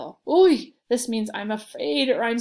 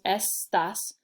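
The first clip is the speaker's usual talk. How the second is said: es-tas, the two syllables set apart; split into two syllables. Shown as a demonstration. Teacher shows two syllables, saying estas piece by piece. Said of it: "there's two syllables".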